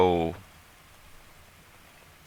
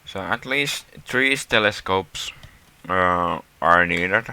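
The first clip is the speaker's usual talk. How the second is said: talking around a pen in mouth; words muffled by a pen held in mouth. Real, not acted. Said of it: "Sorry, I have a pen in my mouth".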